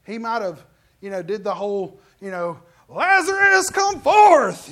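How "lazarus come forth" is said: full scream, much higher and louder. Shown as a demonstration. Preacher imagines Jesus screaming at the tomb, full scream. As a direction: scream it out like a command to the dead. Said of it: "Jesus might have screamed it".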